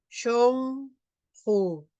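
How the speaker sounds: "shonju" with a scraped j; throaty "shonju"; Quechua pronunciation. Shown as a demonstration. Teacher demonstrating a Quechua word. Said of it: "Lo pronunciamos shonju".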